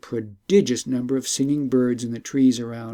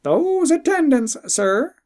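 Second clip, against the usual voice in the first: high, slow and louder; talking bird, revealing; 13 semitones higher, 5 dB louder, slower than usual. Acted. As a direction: lay out the secret with weight.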